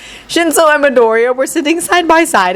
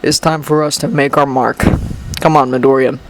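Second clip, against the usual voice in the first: snarl; 9 semitones lower than usual. Acted. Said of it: "he snarled".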